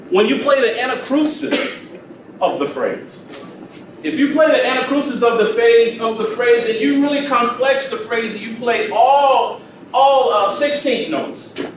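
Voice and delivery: high, loud, pompous musician-speak; jargon-heavy show-off. Shown as a demonstration. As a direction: rattle off big music words like a show-off. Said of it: "So I didn't say any of that".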